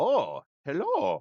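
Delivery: weird, oddly surprised-sounding voice. Retelling how a new doctor greeted the speaker at the door, in his weird voice. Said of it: "He he has this weird sound in his voice".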